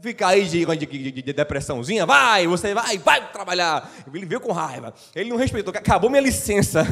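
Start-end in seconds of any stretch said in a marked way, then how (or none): 0.0-3.9 mock scolding God. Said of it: "vai me". 5.8-6.8 chuckling through the line; amused mock complaint; laughing quote. The speaker joking, laughing.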